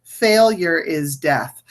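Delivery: slow, deliberate stress on failure and death; emphatic repeat. Shown as a demonstration. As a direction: land on "failure", then let "death" fall slowly. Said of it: "I'm gonna emphasize that last word again".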